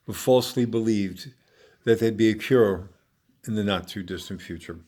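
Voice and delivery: measured read-aloud with deliberate pauses; recited autobiographical stage monologue. Acted. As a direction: read your personal monologue to an audience, phrase by phrase. Reads own stage monologue.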